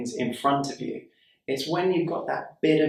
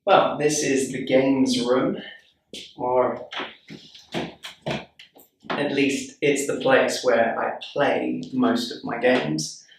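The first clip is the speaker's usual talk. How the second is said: echoey room; slower than usual. Real, not acted. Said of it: "it's so echoey".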